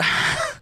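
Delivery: laugh. Real, not acted. Exasperated laugh at what turns out.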